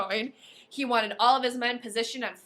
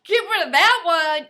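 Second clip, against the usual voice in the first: soldier shout; 6 semitones higher, 11 dB louder than usual. A narrator's reading.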